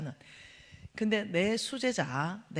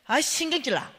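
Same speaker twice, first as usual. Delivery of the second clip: higher, louder petulant grumble; irritated whine; 6 semitones higher, 5 dB louder than usual. Retold or imitated. Complaining to the pastor in the car, petulant whine. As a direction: whine it out, annoyed. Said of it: "이러니까 홍 목사님".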